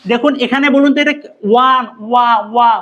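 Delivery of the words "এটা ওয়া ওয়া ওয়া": ওয়া repeated with a clear w onset; teacher sounding out ওয়া; sound modelled. Shown as a demonstration. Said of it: "কেমন sound আছে".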